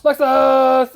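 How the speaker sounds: loud call of the dog's name. Retold or imitated. The kid calling for her dog, loud call. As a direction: call out across the house. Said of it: "he goes".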